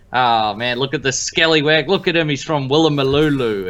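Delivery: hammed-up Aussie slang patter; lightly mock an Australian accent; Australian host impression. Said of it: "He's gonna do my intro".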